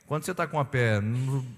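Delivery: ordinary talk, nothing marked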